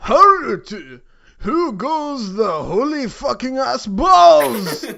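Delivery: loud, high halt call; guard's shout. Acted. Gate guard stops the ape, shouting.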